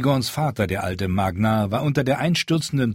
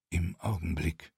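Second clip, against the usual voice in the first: Halleck's curt retort; 3 semitones lower, 10 dB quieter than usual. Acted. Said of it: "Halleck schob sich nach vorn".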